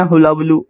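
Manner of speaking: हुला बलू with u in the first syllable and long final oo; pronunciation demo. Shown as a demonstration. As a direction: model हुला बलू as one word. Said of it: "ऐसे".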